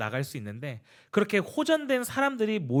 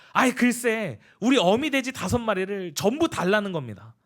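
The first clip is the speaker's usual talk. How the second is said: higher, heated mock outburst; 3 semitones higher than usual. Deacon shouts to the pastor about the neighbour's demand, mock outburst. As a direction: burst out in retold fury. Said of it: "막 소리를 버럭 지르는 거야".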